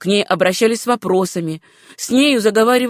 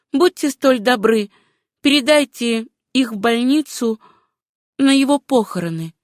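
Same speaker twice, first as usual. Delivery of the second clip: higher-pitched polite request; pleading heroine; 3 semitones higher than usual. Acted. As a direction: lift the voice into a woman's earnest request. Susanna asks the doctor a favour.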